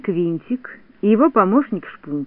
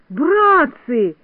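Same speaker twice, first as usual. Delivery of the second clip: higher, indignant call; crying out; 6 semitones higher, 4 dB louder than usual. A narrator's reading. Toropyzhka appeals to his friends, crying out. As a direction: call out in alarm to the others. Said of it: "закричал Торопышка".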